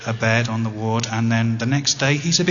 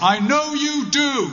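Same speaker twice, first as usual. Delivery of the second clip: loud, raised, very high-pitched voice. Retelling leaving a hospital ward, the speaker quotes the dad in a loud voice. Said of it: "in a loud voice".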